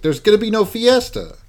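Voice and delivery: high hammy ghost voice; mock spooky decree; unearthly voice. Ghost voice in recap.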